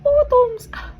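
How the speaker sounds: high, loud party cheer; cheerful toast shout. Real, not acted. Toasting before drinking the shot. (masiglang sigaw ng tagay)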